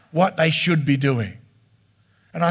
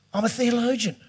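smug mock; 3 semitones higher than usual. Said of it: "it's sort of".

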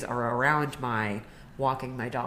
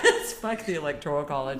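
laughing shout. Real, not acted. Host echoing her friend, laughing and shouting. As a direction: shout it back through laughter.

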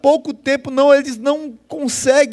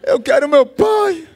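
put-on child's demand again; 5 semitones higher, 3 dB louder than usual. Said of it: "disse assim".

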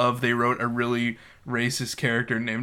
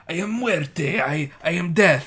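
mock dramatic villain; 4 semitones higher than usual. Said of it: "Tucci's being very dramatic and saying".

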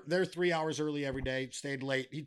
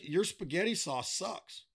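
put-on Italian accent; 3 semitones higher, slower than usual. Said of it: "in that accent by the way he wrote it".

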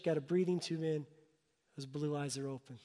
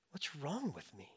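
softer, slower, deflated repeat of the question; despairing murmur; 5 dB quieter than usual. Retold or imitated. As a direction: let it sink into quiet self-reproach. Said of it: "I went".

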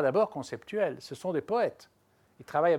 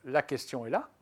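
"là" at the end lifted with a rising tune; stress on là. Shown as a demonstration. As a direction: land the line on a ringing "là". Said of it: "Sur le là, on donne le là du vers". (accent final sur « là », qui monte)

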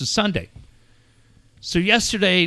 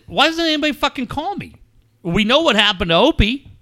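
exasperated, higher-pitched ranting at family; worked-up retold tirade; retold angry yelling; 7 semitones higher than usual. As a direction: re-enact chewing out your family, voice pitched up. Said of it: "I yelled at my son".

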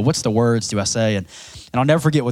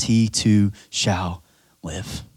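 slow, dropping to near silence on live; hushed scripture close; slow and fading; 3 semitones lower, 3 dB quieter, much slower than usual. Acted. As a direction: let the last word fall away softly. Slowed reading of scripture.

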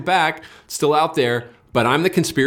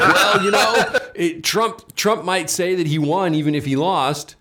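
mocking impression; 5 semitones higher, slower than usual. Host mocks leftist planners to podcast hosts, sneering and laughing. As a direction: parody their smug reasoning, laughing.

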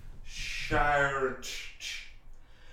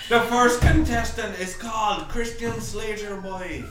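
announcer; 4 semitones higher, 4 dB louder than usual. Pretend. Announcing show contestant loudly.

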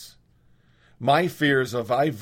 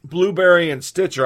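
throat irritated; 4 semitones higher, 6 dB louder than usual. Real, not acted. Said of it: "I just swallowed a bug".

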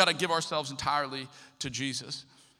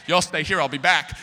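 louder, evasive brush-off; sneaky excuse; 2 semitones lower, 6 dB louder than usual. Retold or imitated. Leaving the snowbound shelter, telling others to stay, loud evasive excuse. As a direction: fob them off and slip away.

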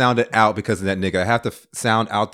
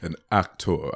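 "An actor" low and drawn out; proud "an actor"; 6 semitones lower, 5 dB quieter, slower than usual. Shown as a demonstration. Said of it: "You hear how I said that?".

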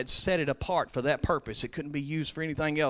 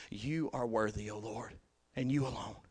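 much softer, reverent murmur; hushed worship; 6 semitones lower, 10 dB quieter than usual. Acted. Preacher turning the verse into a quiet prayer, hushed. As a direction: drop to a hush like a prayer.

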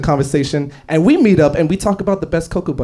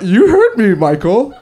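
insistent; 3 semitones higher, 4 dB louder, slower than usual. Acted. Acted demand to insurance agent.

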